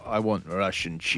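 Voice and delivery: slow, low pretend foreign shopper; low, drawn-out mock request; pretend non-Russian speaker. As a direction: play the clueless customer, slowly and softly. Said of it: "I pretend I don't speak Russian".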